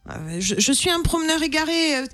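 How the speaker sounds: mildly hammed-up stranded tourist; exhausted lost walker. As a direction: plead a little, like a worn-out hiker. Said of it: "il est épuisé".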